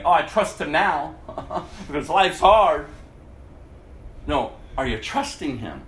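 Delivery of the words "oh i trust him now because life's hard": mock-casual with a laugh; a glib believer laughing off hard times; flippant, laughing. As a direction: toss it off lightly, laughing. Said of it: "not just say it flippantly".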